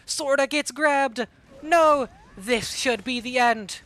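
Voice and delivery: excited. Real, not acted. Final moments of a close match.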